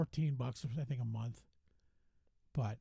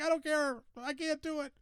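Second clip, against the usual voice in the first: mock panic; 10 semitones higher than usual. Murr voiced refusing, frightened.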